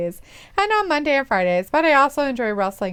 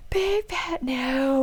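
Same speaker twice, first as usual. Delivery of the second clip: BIG and NO stretched long, higher pitched; drawn-out refusal; 4 semitones higher, much slower than usual. Real, not acted. Co-host rejects the love triangle, exaggerated drawn-out no. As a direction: repeat it very slowly, stretching every word.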